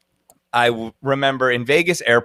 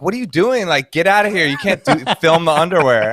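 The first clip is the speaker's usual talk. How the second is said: higher, scolding shop clerk; annoyed shop lady; 5 semitones higher than usual. Retold or imitated. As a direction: shoo him out like an irritated clerk. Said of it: "the lady came up to me and she's like".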